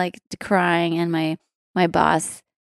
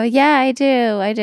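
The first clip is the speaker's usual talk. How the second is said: bluffing insistence; 5 semitones higher, 5 dB louder than usual. Retold or imitated. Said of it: "And I'm lying".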